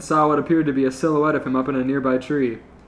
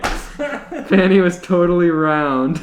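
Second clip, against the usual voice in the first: gargled voice; 4 semitones higher, 4 dB louder, much slower than usual. Acted. Reread with water in throat.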